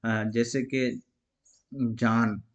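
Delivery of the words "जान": जान with the final n fully sounded; crisp final n; clear n. Shown as a demonstration. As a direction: land the न cleanly. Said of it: "नून साफ साफ पढ़ा जाता है".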